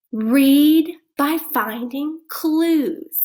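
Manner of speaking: slow and clear. Shown as a demonstration. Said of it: "Can you say that with me?".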